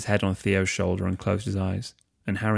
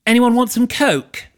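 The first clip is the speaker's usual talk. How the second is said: very high, slow, dreamy voice; Pansy offering coke at the party, very high and slow; dazed party girl; 9 dB louder than usual. Acted. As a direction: drift it out like she's high.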